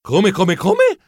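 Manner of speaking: stammering, last "come" leaping very high; high squeaky stammer of disbelief; incredulous. Acted. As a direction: stutter in disbelief. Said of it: "Chiesi incredulo".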